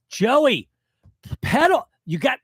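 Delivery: Joey, pedal! yelled up high and loud; exasperated yelling at son. Retold or imitated. Father yelling at his son learning to ride a bike, exasperated shout. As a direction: bark at the kid to keep pedaling. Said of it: "And I'm like".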